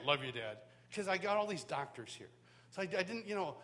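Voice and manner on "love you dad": low-pitched manly-man voice. Retold or imitated. Son repeating his words to Dad, low and manly. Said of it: "I even said it like a manly man".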